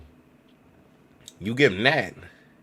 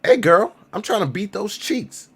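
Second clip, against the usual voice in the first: higher, loud-then-slow goofy line; sample phrase; 12 semitones higher, 5 dB louder, slower than usual. Pretend. Typing a sample phrase into the translator, cheesy pickup line. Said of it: "throw out a random conversation phrase".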